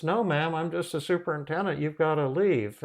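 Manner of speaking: high, hurried explanation; insistent protest. Retold or imitated. Superintendent explains himself to the frightened tenant, insistent protest. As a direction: imitate an exasperated official insisting.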